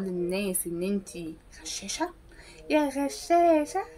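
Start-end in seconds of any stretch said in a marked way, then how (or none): 2.7-3.8 slow, higher sing-song jeer; slow rising taunting call; mock taunt. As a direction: drag out the insult teasingly. Teasing the cheater.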